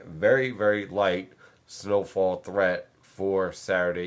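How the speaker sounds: light leaned on, slow and drawn out; slow down and weigh the word light; slow emphatic warning that the snow stays light; stress on light. Real, not acted. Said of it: "I stress the word light".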